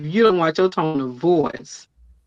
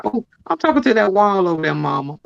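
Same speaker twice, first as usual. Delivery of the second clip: higher, cheeky mock-innocent child; playful kid voice; 3 semitones higher than usual. Child answering mom with cheeky excuse, lightly voiced. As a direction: play the sassy kid dodging trouble. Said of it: "they'd be like".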